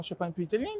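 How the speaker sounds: Mario-like phrase ending. Real, not acted. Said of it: "il prend la voix de Mario".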